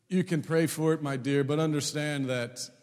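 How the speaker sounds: loud, weighty mock-pastoral pronouncement; pompous seminary student. Seminary student correcting his wife, mock-pompous and loud. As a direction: lecture grandly, leaning on each phrase. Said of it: "Being the astute future pastor biblical student".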